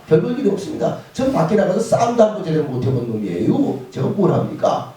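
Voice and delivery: mildly protesting, self-belittling reply; acted protest with a touch of indignation; arguing back. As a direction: argue that you're a nobody. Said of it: "그러면서 따지기를 해요".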